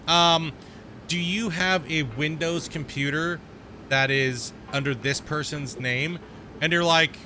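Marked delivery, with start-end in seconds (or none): 0.1-6.2 slow, drawn-out scripted caller voice; mock telemarketer. Mimicking a telemarketer who calls, slow and scripted. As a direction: drag out the sales pitch like a scripted caller. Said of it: "the telemarketers that call and they're like".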